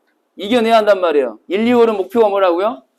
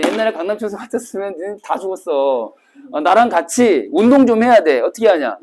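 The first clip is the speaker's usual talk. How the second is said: ordinary delivery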